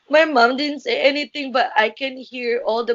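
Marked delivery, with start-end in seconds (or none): 0.1-1.5 real tears, words pushed out through crying. Real, not acted. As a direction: voice breaking into tears as she remembers. Recalling mom's silence, crying.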